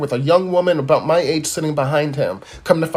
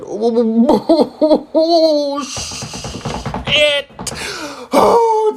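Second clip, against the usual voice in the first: laughing; 6 semitones higher, much slower than usual. Real, not acted. Cracks up laughing.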